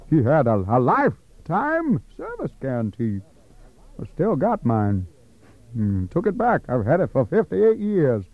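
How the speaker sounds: a lightly voiced rambling old timer; old wino. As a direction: play a drifting old drunk reminiscing. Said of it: "I wanna try my wino character".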